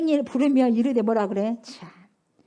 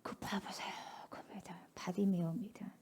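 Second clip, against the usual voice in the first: whisper; 5 semitones lower, 17 dB quieter than usual. Real, not acted. Preacher hushes for emphasis.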